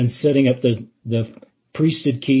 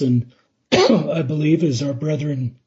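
hoarse, strained, slow; losing voice; 2 semitones higher than usual. Real, not acted. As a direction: voice giving out, keep pushing through. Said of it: "sorry, I'm losing my voice".

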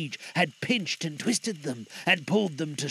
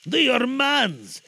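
slow, high, solemn spirit; grave pronouncement; 7 semitones higher, 5 dB louder, slower than usual. Acted. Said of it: "said the spirit".

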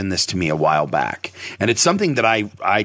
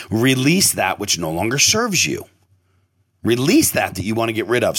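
spaced-out, deliberate meditation lines; guided meditation. Shown as a demonstration. Host closing the breath exercise, measured guiding voice. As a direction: guide them to let it go.

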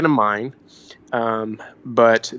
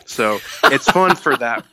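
said through a laugh; chuckling while delivering the verdict; 3 dB louder than usual. Real, not acted. Preston laughing as he sums up the movie.

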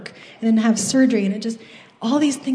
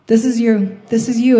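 louder, insistent prayer; a resolute spoken prayer, pushing the worry away; firm declaration; 6 dB louder than usual. Retold or imitated. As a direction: plant your feet and declare it. Firm prayer handing it over.

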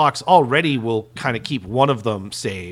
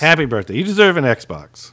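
more cheerful; 4 semitones higher, 5 dB louder than usual. Pretend. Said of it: "Tell me I deserve an Xbox S".

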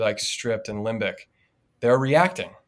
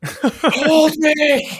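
put-on high, loud, demanding little-girl squeal; loud, high little girl demanding to be picked up; little girl's high-pitched voice; 10 dB louder, much slower than usual. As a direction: demand it like a bossy toddler. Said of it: "she said it in a little girl's high-pitched voice".

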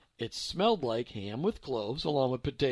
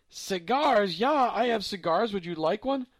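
put-on high, loud eager old lady; lightly voiced German grandma; old German woman; 6 semitones higher, 6 dB louder than usual. A narrator's reading. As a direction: offer cigars, happily mishearing.

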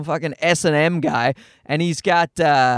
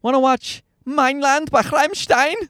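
put-on high little-kid question in a German accent; high voice, throaty German band imitation; toddler's German accent; 8 semitones higher than usual. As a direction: imitate a two-year-old putting on German pronunciation. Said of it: "a two-year-old toddler look at me and say".

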